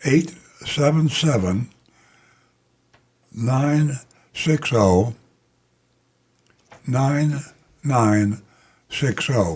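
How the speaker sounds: drawn-out, careful, very slow, deliberate digit reading. Giving listeners the call-in number so they can write it down, speaking very slowly. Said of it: "the reason I speak so slowly".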